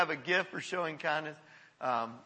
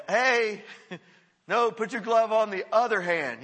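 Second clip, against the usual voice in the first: calling out to players; 5 semitones higher, 6 dB louder than usual. Retold or imitated. Coaching novice softball players.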